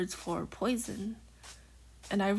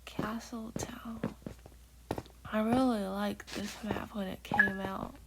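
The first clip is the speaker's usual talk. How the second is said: whispering. Real, not acted. Whispered gameplay chat throughout.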